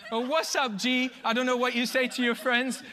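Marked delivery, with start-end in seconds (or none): 0.2-1.1 London slang. Pretend. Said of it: "that was London slang".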